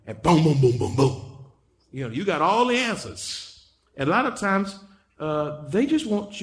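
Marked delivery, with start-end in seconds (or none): 0.2-1.2 rattled-off booms, like shots; imitated gunfire booms. Preacher mimics shooting answers at angry people, punchy booms. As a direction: fire off a run of booms.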